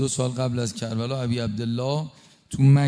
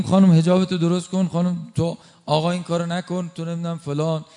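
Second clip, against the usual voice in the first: street scolding; 4 semitones higher than usual. Retold or imitated. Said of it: "باید بریم تو خیابون بگیم".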